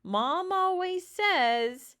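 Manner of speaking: a sister loudly passing on Mom's warning; crying out. Acted. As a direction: draw the warning out as you call up. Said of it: "cried Annabelle".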